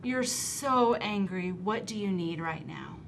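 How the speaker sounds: slow, soft validating phrase; calm an upset child; a touch of tender comfort; gentle empathy. Shown as a demonstration. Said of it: "Another phrase I like to use is".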